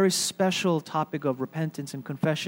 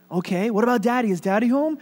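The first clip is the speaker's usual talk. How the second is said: put-on telemarketer to child; 6 semitones higher, 3 dB louder, faster than usual. Telemarketer talks to little child.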